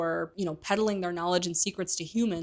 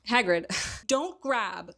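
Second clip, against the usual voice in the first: laughing; 3 semitones higher, slower than usual. Real, not acted. Laughing aside at Hagrid.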